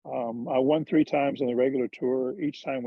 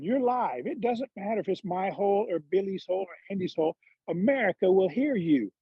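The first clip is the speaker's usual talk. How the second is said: higher-pitched Georgia hick instructions; Charlie Reimer's hick accent; 4 semitones higher than usual. Retold or imitated. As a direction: mimic a hick trainer explaining with emphasis. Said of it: "he's got this hick accent".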